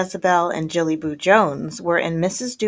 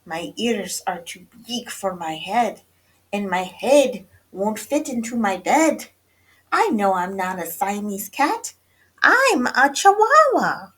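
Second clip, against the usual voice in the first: put-on playful Spanish accent building to a high, loud cry; 3 semitones higher, 6 dB louder than usual. A narrator's reading. Kitty boy claims he's a Chihuahua, in Spanish accent. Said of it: "using his very best Spanish accent".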